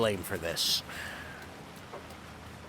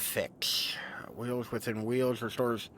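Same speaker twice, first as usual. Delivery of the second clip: slow unvoiced whisper; 9 dB quieter, slower than usual. Real, not acted. Streamer reading a new ability, slow whisper. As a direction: breathe the name out slowly. Reading a pickup name to himself.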